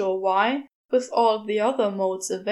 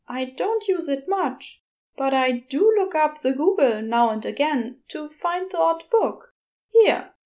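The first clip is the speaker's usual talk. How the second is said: higher, bright fussy angel rising to a loud Here; chirpy old-fashioned angel, building up; Aziraphale voice; 4 semitones higher, 4 dB louder than usual. Acted. Aziraphale cheerfully explains.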